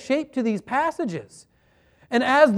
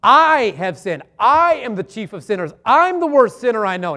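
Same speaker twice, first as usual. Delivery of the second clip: louder, earnest plea for mercy; penitent confession; 6 dB louder than usual. Retold or imitated. A preacher voicing a repentant sinner confessing loudly. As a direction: cry out your guilt to the Lord. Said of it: "that guy who comes in and says".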